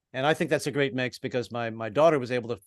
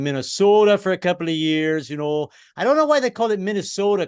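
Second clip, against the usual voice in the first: put-on Minnesota accent; 5 semitones higher, 4 dB louder than usual. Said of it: "I always picked up the accents wherever I moved".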